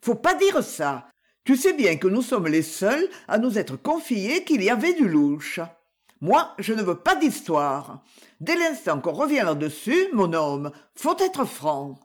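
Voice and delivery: émue, voix plus aiguë et pressante; elle insiste, troublée, auprès de son mari; agitée. Acted. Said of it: "agitée d'une certaine émotion". (la femme interrompt son mari : agitée, plus aiguë)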